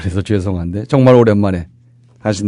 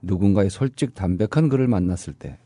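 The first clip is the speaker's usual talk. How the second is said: radio host reading. Acted. Scripted radio show opening.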